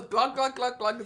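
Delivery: quick spoken glug-glug noises; imitated pouring glugs. Friend teasing about pouring one out, mock glugging. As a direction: mimic a drink being poured. Imitating a drink being poured.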